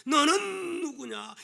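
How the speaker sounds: high, slow, drawn-out challenge; challenging question. Acted. Preacher voicing the question to ask when upset, challenging question. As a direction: stretch the question out insistently.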